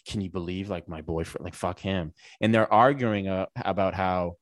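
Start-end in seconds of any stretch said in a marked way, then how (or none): 0.1-2.1 quiet complaint. Retold or imitated. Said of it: "being like".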